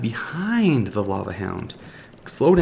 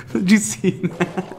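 laughing disbelief; 8 semitones higher, slower than usual. Real, not acted. Laughing at own blunder.

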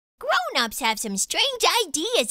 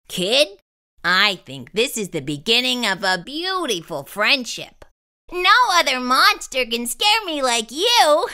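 monster voice; 3 semitones lower, 4 dB louder than usual. Acted. Gabe the monster speaks.

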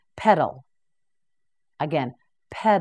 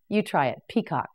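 normal talking voice

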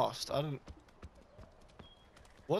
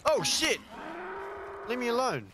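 scared and angry; 13 semitones higher, 3 dB louder than usual. Real, not acted. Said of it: "scared and angry".

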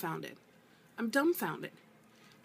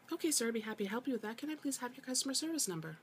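higher, softer and quick, with sugary politeness; fake customer-service politeness; 4 semitones higher, 4 dB quieter, faster than usual. Tired agent sweetly humoring an absurd caller, higher and softer. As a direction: rattle it off with sarcastic sweetness.

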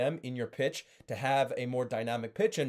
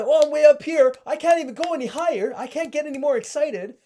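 much higher, much louder, stuck at the ceiling; maxed-out excitement; 12 semitones higher, 10 dB louder than usual. Shown as a demonstration. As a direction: shout it with nowhere left to climb. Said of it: "I'm technically monotone".

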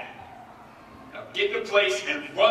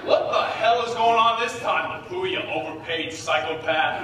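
angry outburst; 2 semitones higher, 3 dB louder than usual. Acted. Producer storms in angry.

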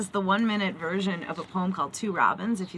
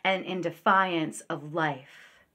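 measured poem recitation, words set apart; poetry reading; 4 dB louder, slower than usual. Acted. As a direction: read it as a poem, letting the last repeats sink and fade.

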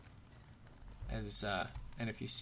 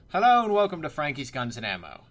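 put-on loud shopkeeper welcome in British accent; 2 semitones higher, 12 dB louder than usual. Shopkeeper welcoming a customer to his shop, British accent. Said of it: "a British accent".

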